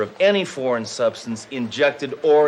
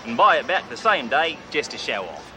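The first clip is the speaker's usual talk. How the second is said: fake Australian accent; 2 semitones higher, 4 dB quieter than usual. Undercover cop posing as a rich car dealer, in a hammy Australian accent. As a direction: play a cocky Australian tycoon in a put-on Australian accent. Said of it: "Name's Crocodile Bruce".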